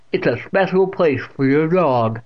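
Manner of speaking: put-on deaf old aunt explaining. A narrator's reading. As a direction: explain loudly and slowly.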